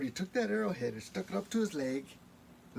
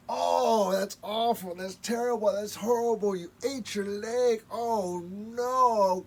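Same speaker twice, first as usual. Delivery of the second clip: horrified; 3 semitones higher, 6 dB louder than usual. Acted. Coyote horrified again.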